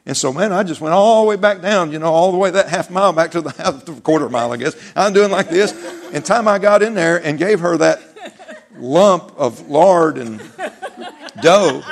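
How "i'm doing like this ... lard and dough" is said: louder, chuckling through the words; laughing storytelling. Real, not acted. Preacher laughing loudly at his childhood football story. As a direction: build up loud and laughing to "dough".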